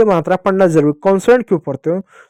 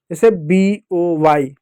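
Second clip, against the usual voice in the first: slow spelling; much slower than usual. Shown as a demonstration. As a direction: spell B O Y out slowly, letter by letter. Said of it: "इसको पढ़ोगे ब".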